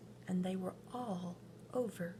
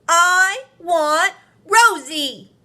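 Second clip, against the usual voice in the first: slow, loud and higher whine; whining boy; 10 semitones higher, 20 dB louder, slower than usual. A narrator's reading. Marvin refusing his sister, slow high whine. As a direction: stretch every word like a sulking child. Boy insisting a third time.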